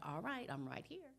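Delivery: gentle acted baby-soothing, lifting in pitch; soothing mother. Mother going straight to her crying baby, soothing. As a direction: reassure a crying baby as a parent would.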